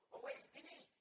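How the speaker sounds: high calling out to someone. Retold or imitated. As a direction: call him back from a distance. Calling someone back in the street.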